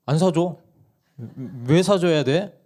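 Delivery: 높고 크게 딱 잘라 말하는 엄마; 짜증 섞인 거절을 흉내 내듯; 단호한 엄마 흉내. Retold or imitated. 엄마가 단칼에 거절. (막내 요구를 자르는 아내 말투)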